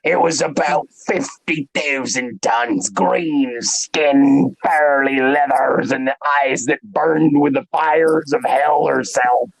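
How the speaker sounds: hammed-up Irish storyteller accent; bad Irish accent. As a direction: spin a tall tale in a fake Irish brogue. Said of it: "he's doing a bad Irish accent".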